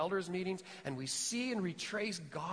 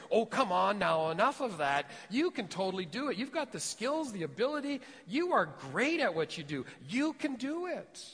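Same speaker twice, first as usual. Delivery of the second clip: hyped encouragement; 4 semitones higher, 3 dB louder than usual. Pretend. Voicing friends pumping someone up.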